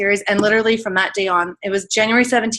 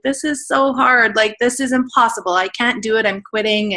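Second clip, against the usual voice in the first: imitating her own defeated protest; exasperated complaint; 3 semitones higher than usual. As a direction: retell giving up, complaining to mom and dad. Retold tearful call to parents.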